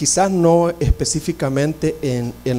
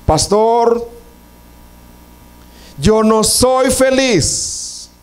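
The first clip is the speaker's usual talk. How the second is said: slow, higher, aching admission; sorrowful confession; 6 semitones higher, much slower than usual. Retold or imitated. Visitor confessing to the pastor in his office, slow and sorrowful. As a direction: let each word weigh, a lightly voiced grieving visitor. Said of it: "lo primero que le dice es".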